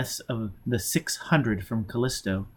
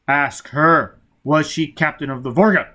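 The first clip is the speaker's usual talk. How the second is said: stern demand; 3 semitones higher, 6 dB louder than usual. Acted. Foyle pressing.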